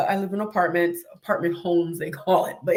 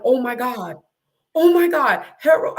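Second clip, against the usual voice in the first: retold panic; 2 semitones higher, 4 dB louder than usual. Panicking as the dog charges.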